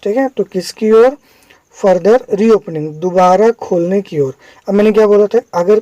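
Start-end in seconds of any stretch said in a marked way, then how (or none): 1.8-2.9 slow reading. Shown as a demonstration. Teacher reads the headline word by word.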